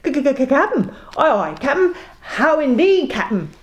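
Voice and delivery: first mate panics before captain; stammering fright. Acted. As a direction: stammer in terror.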